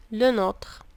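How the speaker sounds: whispered Le nôtre. Shown as a demonstration. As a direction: breathe the drill word Le nôtre. Whispered repeat of drill word. (همس بكلمة Le nôtre)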